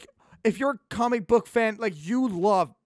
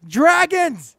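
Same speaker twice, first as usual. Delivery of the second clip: high, loud shout of Dragons!; excited shout; 9 semitones higher, 8 dB louder than usual. Real, not acted. Podcast host hypes Natsu being raised by dragons, with an excited high shout. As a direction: yell it like the coolest fact ever. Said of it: "hyping Natsu's upbringing".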